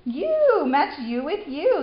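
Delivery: high, loud delighted echo; excited. Real, not acted. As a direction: celebrate the right answer. Cheering child's correct answer.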